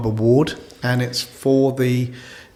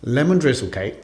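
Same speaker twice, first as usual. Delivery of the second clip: ASMR-like; 5 dB quieter than usual. Real, not acted. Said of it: "So that's some A S M R".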